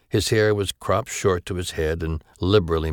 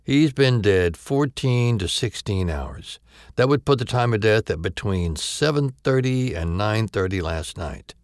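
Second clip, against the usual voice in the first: female doctor voice; 6 semitones higher, 3 dB louder than usual. Acted. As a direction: state the time of death carefully.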